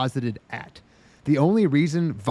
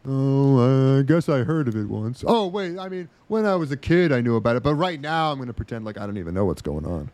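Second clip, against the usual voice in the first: clueless hero voice. Retold or imitated. Mocking clueless main character.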